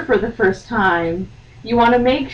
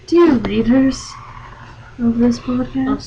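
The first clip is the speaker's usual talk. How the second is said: mock formal address; 3 semitones higher than usual. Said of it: "I'm gonna call you dear readers".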